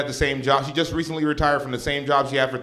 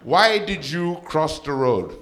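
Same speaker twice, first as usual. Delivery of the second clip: mom telling a joke; 2 semitones higher, 3 dB louder, slower than usual. Retold or imitated. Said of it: "She goes".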